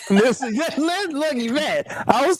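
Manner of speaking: can't stop laughing while telling it. Real, not acted. Laughing at his own story.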